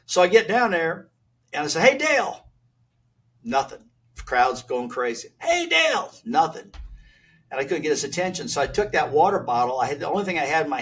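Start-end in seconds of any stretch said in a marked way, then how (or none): 1.8-2.5 high shouted call across a noisy crowd; trying to be heard over the cheering crowd. Retold or imitated. Calling out to Dale over crowd. 5.4-6.1 high shouted call across a noisy crowd; trying to be heard over the cheering crowd. Retold or imitated. Calling out to Dale again.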